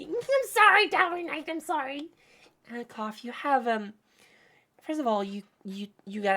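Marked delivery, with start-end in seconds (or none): 0.0-2.1 laughing apology. Real, not acted. Laughing at viewer Tower Knight.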